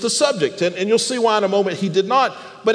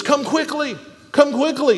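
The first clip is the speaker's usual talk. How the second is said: urgent plea; 6 semitones higher than usual. Retold or imitated. Voicing Mary's urgent message to Jesus.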